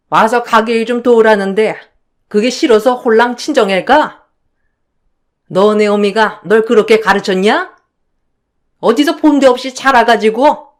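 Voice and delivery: a mother-in-law berating her daughter-in-law, lightly voiced; nagging, accusing older woman on the phone; scolding mother-in-law. Mother-in-law scolding her daughter-in-law over the phone, lightly voiced.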